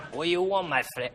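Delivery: put-on lightly done Spanish accent. Comic answering a request to do the Spanish, Spanish accent. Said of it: "Do the Spanish".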